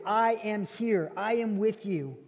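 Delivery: slow, gentle promise; slow reassuring voice of comfort; tender reassurance. Acted. God's answer read tenderly.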